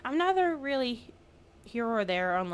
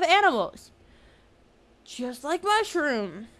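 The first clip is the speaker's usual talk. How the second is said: higher, hammed-up nature narrator; mock nature commentary; 4 semitones higher than usual. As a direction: play a cheery wildlife host, half-sarcastic. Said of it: "I guess I could commentate on what they're doing".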